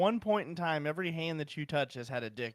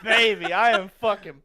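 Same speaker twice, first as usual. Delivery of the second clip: pumped shout; 5 semitones higher, 11 dB louder than usual. Real, not acted. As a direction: shout your excitement at the room. Lighting s'mores at his desk.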